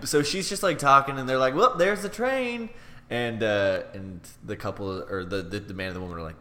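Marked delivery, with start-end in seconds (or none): 1.5-2.7 high, slow, drawn-out hint; pointed announcement. Acted. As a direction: sing out a loud hint to cut off the chatter. Acted interruption of the chatterer.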